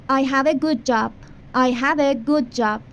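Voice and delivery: slow teacher demo of the sentence; slow model sentence. Shown as a demonstration. Teacher modelling English for Persian students, slow. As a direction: say it slowly for repetition. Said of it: "شغل خوب دارم".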